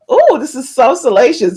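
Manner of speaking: a hint of prim, proper lady; lightly proper, savouring the scandal; mock proper. Shown as a demonstration. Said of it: "this is why I get all proper".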